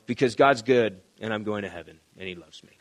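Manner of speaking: low, fading mock mope; mock bummed-out. Imitating a bummed-out Christian listing blessings, mock glum and fading. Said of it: "a Christian that's bummed out".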